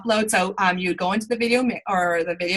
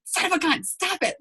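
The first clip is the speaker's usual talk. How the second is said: mock exasperated; 9 semitones higher, 5 dB quieter than usual. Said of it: "And I'm like".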